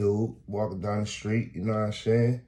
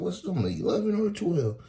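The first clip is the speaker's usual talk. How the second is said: mock question; 12 semitones higher than usual. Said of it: "I said".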